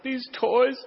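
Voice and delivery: put-on a touch of a sobbing pessimist kid; mock crying child. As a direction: play the gloomy twin near tears, lightly. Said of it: "he was just sitting there crying".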